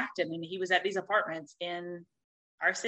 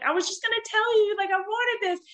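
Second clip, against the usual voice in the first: much higher, excited squeal of a voice; retold delight at the boyfriend bringing her drink. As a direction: gush with surprised delight.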